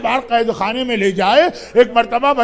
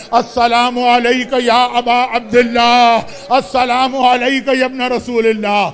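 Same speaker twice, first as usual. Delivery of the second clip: slow recitation; slower than usual. Acted. Wives recite the ziyarat.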